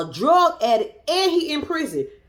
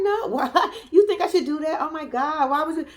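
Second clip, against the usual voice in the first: giggly mock excitement; 4 semitones higher than usual. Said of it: "She was like".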